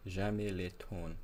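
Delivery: slow French, carefully sounded out; amateur French accent, drawn out; best French accent. Pretend. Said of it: "Was that any better?".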